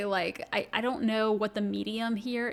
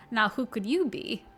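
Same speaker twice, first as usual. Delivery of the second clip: trying out a Scottish lilt on the line; tentative Scottish accent; 3 dB louder than usual. Shown as a demonstration. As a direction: test a rough Scottish accent. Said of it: "should I try to do a Scottish accent?".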